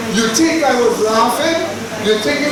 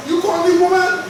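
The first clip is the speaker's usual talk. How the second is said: indignant; 6 semitones higher than usual. Acted. Acted offended woman.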